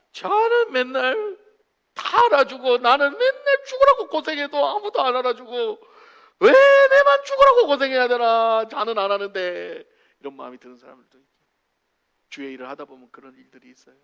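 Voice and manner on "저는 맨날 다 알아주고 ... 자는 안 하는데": high, loud hammed-up complaint; acted wail of unfairness, peaking then easing; mock grievance. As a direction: complain indignantly as the overlooked worker. Acts an unappreciated worker's loud grievance.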